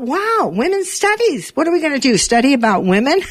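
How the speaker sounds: retold surprise.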